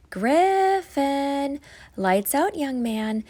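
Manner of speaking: calling loud up the stairs; mother calling up. Acted. Mother calling up the steps to her son, loud. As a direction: call him from downstairs, firm. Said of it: "His mother's voice floated up".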